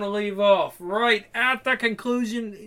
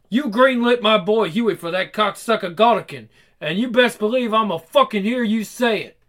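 angry accusation; 3 semitones higher, 3 dB louder than usual. Acted. Same angry character keeps accusing.

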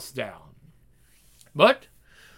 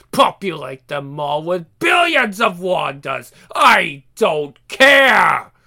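shout; 5 dB louder than usual. Acted. Demon raging, dismissive.

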